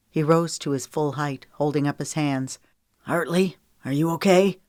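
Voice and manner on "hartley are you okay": asking loudly. Acted. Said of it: "he asked loudly".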